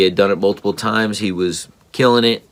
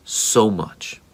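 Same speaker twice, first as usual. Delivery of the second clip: tender whisper. Real, not acted. Father comforting his crying son.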